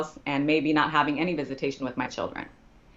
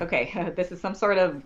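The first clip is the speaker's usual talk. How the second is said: retold nervous chuckle through the words; laughing disbelief; 2 semitones higher than usual. Client to lawyer, laughing in disbelief. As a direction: laugh it off as a mistake. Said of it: "I'm, like, laughing".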